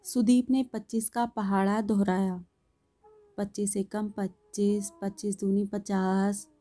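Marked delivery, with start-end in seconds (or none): 3.4-6.5 softly recited times table; times-table recitation. A narrator's reading. Boy repeating his table of twenty-five, soft rote recitation.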